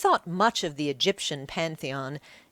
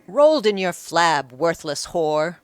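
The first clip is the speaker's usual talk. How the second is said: angry shout; 7 dB louder than usual. Acted. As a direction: spit the insult at her. Udium insults the woman.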